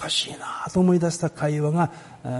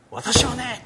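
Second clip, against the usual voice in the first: calling out; 8 semitones higher, much slower than usual. Retold or imitated. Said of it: "神殿の境内で大声で言われた".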